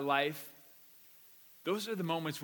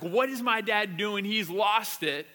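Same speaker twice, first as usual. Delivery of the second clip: mock alarm, louder; child freaking out; 3 semitones higher, 6 dB louder than usual. Young son watching dad yell at the window, mock freak-out. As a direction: imitate a child freaking out, louder and drawn out at the end. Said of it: "he's just freaking out".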